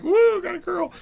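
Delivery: high, loud whoop of joy; thrilled parents whooping; cheering. Retold or imitated. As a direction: celebrate the surprise girl. Parents cheer surprise girl.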